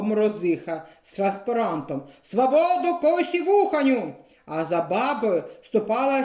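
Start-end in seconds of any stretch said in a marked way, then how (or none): 2.2-4.1 вище, скандуючи гасло; піднесене гасло протесту; гасло на мітингу. A narrator's reading. Баба Морозиха з транспарантом. (баба Морозиха скандує гасло вище)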